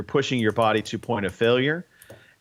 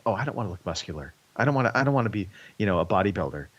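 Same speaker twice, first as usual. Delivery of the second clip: drag voice; 2 semitones lower, much faster than usual. Retold or imitated. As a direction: rattle it off like a drag queen. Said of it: "That's your drag voice".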